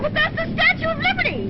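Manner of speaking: high, loud eager insistence; excited protest. Acted. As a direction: insist with bright enthusiasm. Eager protest about the statue.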